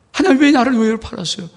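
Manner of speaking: loud, high plea; Joseph's anguished cry. Acted. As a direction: cry out in pain to God. Joseph crying out to God. (하나님께 높고 크게 부르짖는 요셉)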